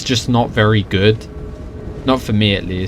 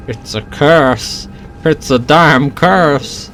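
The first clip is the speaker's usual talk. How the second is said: slow, doom-laden lament, rising by the end; cursed NPC lament; 5 semitones higher, much slower than usual. Retold or imitated. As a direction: drag out each word like a doomed villager. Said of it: "expect them to say".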